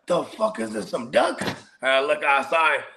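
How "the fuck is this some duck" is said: higher-pitched puzzled question; bewildered double take; baffled reaction. Retold or imitated. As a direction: act out confused disbelief. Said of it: "and I be like".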